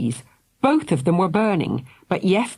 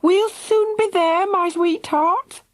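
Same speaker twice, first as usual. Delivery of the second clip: calling out; slower than usual. A narrator's reading. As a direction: call reassuringly from afar. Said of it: "Missus Thunder called".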